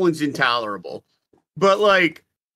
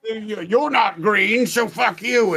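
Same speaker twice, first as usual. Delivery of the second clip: hint of orc voice; 4 semitones higher, much slower than usual. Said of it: "kinda like a drunken cockney".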